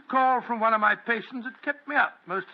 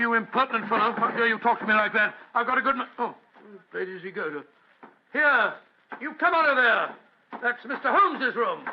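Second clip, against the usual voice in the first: indignant scolding. Acted. Watson scolds the rude workman.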